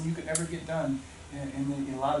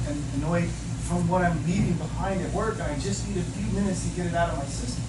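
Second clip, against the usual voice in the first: exasperated protest; 3 semitones higher, 4 dB louder than usual. Retold or imitated. Husband explaining work stress to wife, exasperated protest. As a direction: imitate a husband venting about work.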